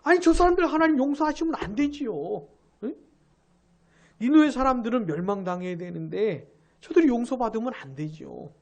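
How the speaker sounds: mild mock indignation; angry Jonah. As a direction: argue with God as the sulking prophet. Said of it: "그래서 화가 나는 거예요".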